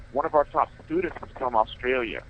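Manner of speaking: muffled sound, mouth half covered. Real, not acted. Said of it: "if I sound a little muffled".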